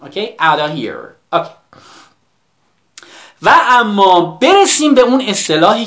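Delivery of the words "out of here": "Out of here" linked as "outta here"; f dropped. Shown as a demonstration. Teacher repeating for students, "of" without its f. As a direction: run "Out of" together without the f. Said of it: "افش رو توی تلفظ دراپ کنید".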